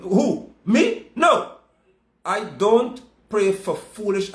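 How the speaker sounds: high, loud incredulous who me, no; mock disbelief. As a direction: act shocked anyone would ask.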